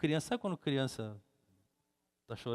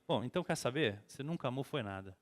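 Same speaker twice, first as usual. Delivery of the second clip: usual speaking voice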